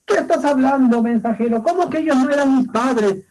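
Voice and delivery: as if the ground gave way; shocked disbelief. Acted.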